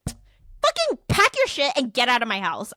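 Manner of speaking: acted-out exasperated command; fed-up order. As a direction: retell throwing someone out, forcefully. Retold order to leave the house.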